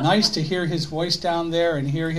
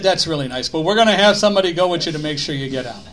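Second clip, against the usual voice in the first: put-on New York accent; 5 dB louder, faster than usual. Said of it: "in this heavy New York accent".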